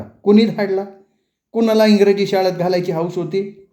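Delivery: heated quarrel. Acted. Mother-in-law berates educated daughter-in-law, angry. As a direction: tear into her.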